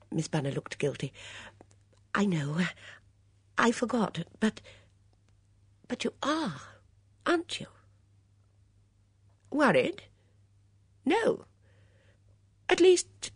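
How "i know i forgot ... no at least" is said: put-on high, fluttery, worried old lady; a fussy old companion fretting; anxious old Dora. Dora frets to Miss Blacklock about the notice, high and anxious.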